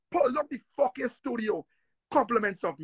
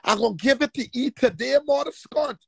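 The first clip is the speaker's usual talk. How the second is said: louder threat; 3 dB louder than usual. Shown as a demonstration.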